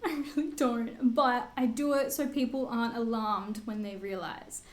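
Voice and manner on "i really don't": giggling protest; laughing denial. Real, not acted. Laughing as she denies loving pointing out her height. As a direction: repeat it through a laugh. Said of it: "You love pointing out".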